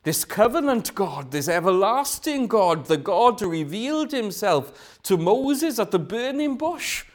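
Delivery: rising, fervent call to the Lord; David crying to the God of Moses; impassioned cry. Acted. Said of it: "he cries out".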